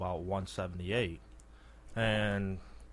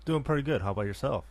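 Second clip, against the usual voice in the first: creepy radio voice; 5 semitones higher, much faster than usual. Real, not acted. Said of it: "kind of a creepy radio voice".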